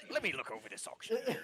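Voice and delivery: inspecting the ox closely. Acted. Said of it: "he's like".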